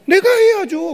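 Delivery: preacher's emphatic answer. Acted. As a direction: proclaim it boldly.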